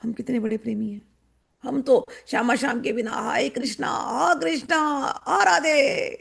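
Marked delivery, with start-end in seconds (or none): 3.1-6.2 hammed-up lament, rising higher; mock devotee wailing. Mocking a showy devotee's put-on wail to Krishna. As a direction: fake a sobbing cry to Krishna. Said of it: "acting number one".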